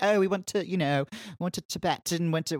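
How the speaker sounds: breezy, high-pitched bragging; airy travel brag, played up; mock gap-year traveler. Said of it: "And they're like".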